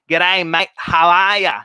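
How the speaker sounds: a light put-on Aussie accent greeting; breezy mock Australian twang, half-joking. Speaker shows a strong Aussie accent she lacks, lightly mock Australian. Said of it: "I don't have an Aussie accent saying".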